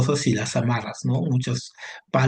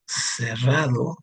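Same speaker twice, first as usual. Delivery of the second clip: drawn out with a slight rise; slow it down so the student catches it; slow dictation; much slower than usual. Shown as a demonstration. Teacher to student, slowly giving the opposite word. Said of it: "si yo pongo".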